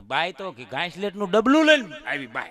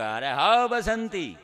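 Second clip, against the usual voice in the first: Gabbar impression; 3 semitones higher, 3 dB quieter, much slower than usual. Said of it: "ગબ્બરનો role લીધો".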